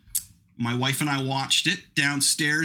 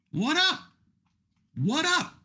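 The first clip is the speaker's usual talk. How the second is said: high, hyped shout-out; greeting the Saudi Arabia fans, pumped; 14 semitones higher, slower than usual. Real, not acted. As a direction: call out to the fans like a hype man.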